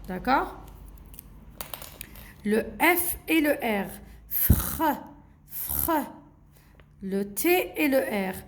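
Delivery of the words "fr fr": "fr" run together with a rasped R; blended consonants. Shown as a demonstration. Teacher repeats for the children, blended consonants. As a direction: sound out "fr" as one blend. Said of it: "il faut juste savoir comment prononcer".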